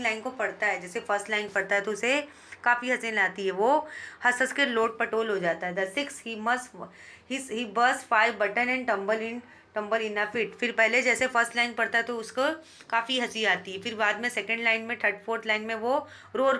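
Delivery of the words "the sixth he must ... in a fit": very slow, deliberate reading of verse; teacher reading poetry aloud; poem recitation. Shown as a demonstration. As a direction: savour each word of the poem line.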